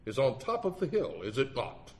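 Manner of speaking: lightly intoned leading question. Retold or imitated. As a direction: lawyer steering a witness, mildly pompous. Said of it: "he intoned, shooting his cuffs".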